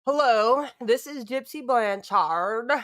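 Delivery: mock Gypsy Blanchard voice. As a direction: play her sweet phone message. Impersonating Gypsy Blanchard message.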